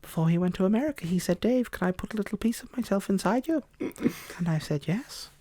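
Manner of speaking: put-on camp it up as the old Campbellian. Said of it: "the old Campbellian voice".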